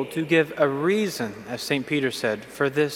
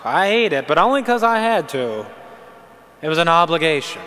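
mock complainer. Imagined person moaning about meals, mock weary. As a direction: play a martyr whining that eating was a duty. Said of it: "Can you imagine someone saying".

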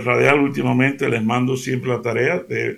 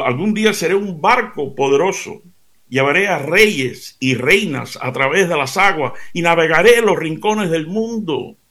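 lively story narration for listeners; animated fable telling; storytelling; 3 semitones higher than usual. Acted. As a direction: tell it like a fable.

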